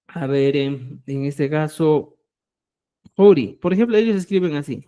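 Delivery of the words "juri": "juri" with a strong throaty J, louder; doble J. Shown as a demonstration. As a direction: hit the start of "juri" hard, like a doubled J. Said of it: "se produce como la doble J". ("juri" con doble jota, fuerte)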